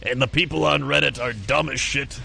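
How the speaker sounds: a hint of a fed-up friend complaining; ranting friend. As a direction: friend griping about Reddit, mock rant. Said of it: "He would always be like".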